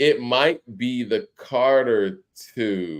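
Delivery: unhurried, slow, thoughtful musing aloud. Ranking a follow-up to a classic, speaking slowly while trying to think. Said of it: "I'm saying that slow".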